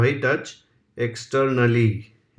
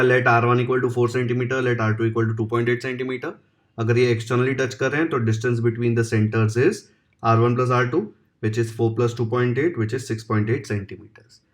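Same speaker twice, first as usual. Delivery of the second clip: slow, deliberate answer dictation; slow dictated conclusion; dictation reading; much slower than usual. Acted. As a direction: spell out the final answer line slowly. Dictating the solution steps.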